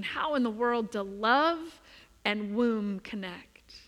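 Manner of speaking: puzzled wondering. Pretend. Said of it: "you might be like me and thinking".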